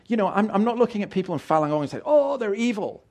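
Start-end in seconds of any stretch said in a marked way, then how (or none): 2.0-3.0 high-pitched mock judgmental outcry; mock condemnation. Preacher imitating a judgement he rejects, mock condemning. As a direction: imitate someone writing people off, pitched up. Mimics condemning Falun Gong members.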